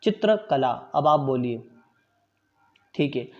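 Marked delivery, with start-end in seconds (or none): 0.0-0.7 चित्रकला spoken crisply as a model for students to repeat; model pronunciation. Shown as a demonstration. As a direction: say चित्रकला clearly, every syllable distinct, with a higher pitch. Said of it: "शुद्ध उच्चारण इसका इस तरह से आप कर सकते हैं कि मैं बोलूँगा". (चित्रकला का स्पष्ट, शुद्ध उच्चारण)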